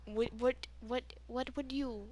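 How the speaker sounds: slipping slightly into an Indian accent; soft, halting hint of Indian accent; accidental Indian accent. Real, not acted. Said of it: "why am I getting an Indian accent".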